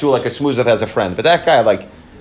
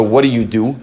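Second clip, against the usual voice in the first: casual small-talk question; 3 semitones lower than usual. Shown as a demonstration. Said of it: "There's two ways you can ask somebody".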